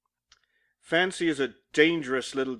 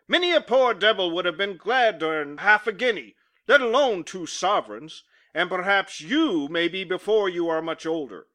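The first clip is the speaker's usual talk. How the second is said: a stern boss voice, sharp and scolding; angry employer; 2 semitones higher than usual. Acted. Employer berating his clerk as he fires him, angry.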